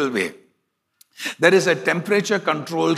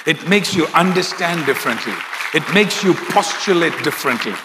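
building sermon. Acted. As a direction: build it line by line into a full preach. Sermon rising to a climax.

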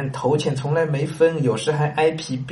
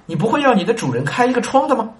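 fool's question; 7 semitones higher, faster than usual. Acted. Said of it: "the fool's earnest question again".

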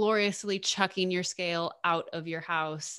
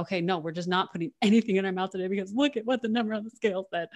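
mock self-loathing. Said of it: "And then there's the pig syndrome".

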